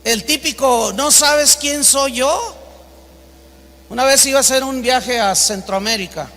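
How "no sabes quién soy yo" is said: slow, mildly haughty question, lifting at the end. Acted. The typical arrogant man looking down on others, mildly haughty. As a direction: look down on them with a drawn-out question. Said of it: "Habla de altanería, El típico".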